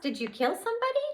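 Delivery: high, fast alarmed question; boy alarmed at a fairy's trial; shocked blurt. Acted.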